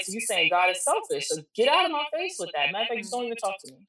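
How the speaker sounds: retold indignation. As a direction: act out shutting someone down, without shouting. Retold angry rebuff of platitudes.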